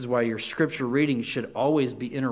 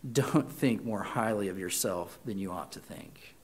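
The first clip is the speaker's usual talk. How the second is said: loving rebuke; 7 semitones lower, 8 dB quieter than usual. Acted. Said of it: "lovingly looks me in the eye and says".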